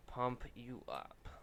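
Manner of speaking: slow mock Austrian accent; drawn-out comedy Austrian accent; Hans and Franz. Artist riffing on pumping up a drawing, mock Austrian accent. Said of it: "I am Hans and I am Franz".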